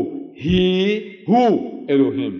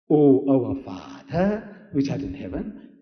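slow prayer with drawn-out "O our Father"; prayer recitation; slower than usual. Retold or imitated. Jesus teaching his people to pray, slow recitation. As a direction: recite it as a measured prayer, softening at the end. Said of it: "Pray like this".

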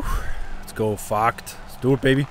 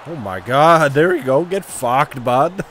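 louder hyped cheer; excited yell; 2 semitones higher, 5 dB louder, slower than usual. Real, not acted. Gamer cheering his player's hit, loud excited yell. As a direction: hype up the hit.

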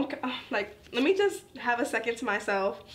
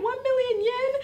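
very high, louder shocked squeal; panicked shriek; 13 semitones higher, 4 dB louder than usual. Retold or imitated. Retelling the bathroom meltdown, very high shocked squeal. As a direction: shriek the amount in disbelief. Shirase bawling, retold shriek.

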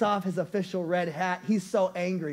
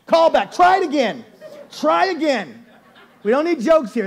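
annoyed manager; 4 semitones higher, 6 dB louder than usual. Retold or imitated. Annoyed at prank calls.

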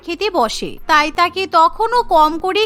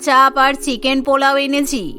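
put-on lower, generous older woman's voice; kindly neighbour; 5 semitones lower than usual. Neighbour offers party food to Meena, lower and generous. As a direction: hand over the food warmly, pitched lower.

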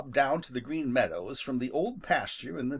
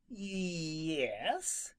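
slow, softer, reluctant; slowly; 4 semitones higher, 7 dB quieter than usual. Acted. Rabbit reluctantly admitting to Jimmy, slow and soft. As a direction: draw it out, unwilling. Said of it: "replied Peter slowly".

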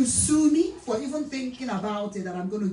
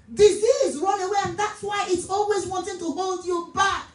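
urgent, raised-pitch exhortation; preaching; 6 semitones higher than usual. Real, not acted. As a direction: press the congregation to act. Preaches at full force.

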